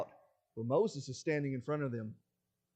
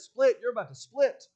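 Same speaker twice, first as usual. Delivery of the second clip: one booming word, much louder and higher; divine command; 6 semitones higher, 10 dB louder than usual. Retold or imitated. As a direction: crack it out like thunder. God commands the sea.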